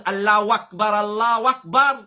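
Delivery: "Akbar Allahu" joined with an a, akbara-llahu; wrongly linked takbir. Shown as a demonstration. Teacher mimicking many callers, "Akbar" wrongly linked with a. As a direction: link "Akbar" to the next word as akbara. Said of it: "pas exister Akbara".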